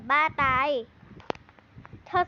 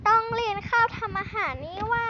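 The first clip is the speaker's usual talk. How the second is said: higher, whiny half-crying complaint; mock wail; 5 semitones higher than usual. Boy realizes he has cooking class, mock crying. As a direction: whimper in comic despair.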